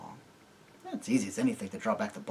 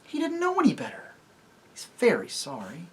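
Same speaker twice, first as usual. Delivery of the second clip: much higher desperate plea; frantic pleading; 12 semitones higher, 3 dB louder than usual. Acted. Jill begs Tirian to spare the donkey, high and frantic. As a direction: beg him to spare it.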